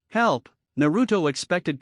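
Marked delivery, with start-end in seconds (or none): 0.1-0.5 shouting. A narrator's reading. Boy shouting at his mother's door for help. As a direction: call out desperately. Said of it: "he shouted".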